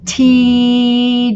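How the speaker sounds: "T" drawn out with a long steady ee; held open vowel. Shown as a demonstration. Teacher letting students hear an open syllable, vowel held. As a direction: let the vowel of "T" ring on. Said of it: "do you hear how that just keeps going".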